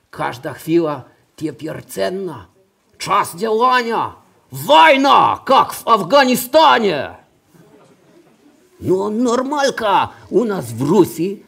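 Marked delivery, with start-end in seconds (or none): 4.5-7.1 put-on Russian-accented battle shout. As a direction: yell it like a soldier. Soldier angel shouting war.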